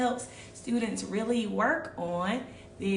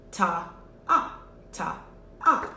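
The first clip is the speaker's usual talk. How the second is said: "ta, ah" in steady pairs; half-note counting; 2 semitones lower than usual. Shown as a demonstration. Teacher contrasts two beats with four, evenly counted. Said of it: "it's only gonna be two".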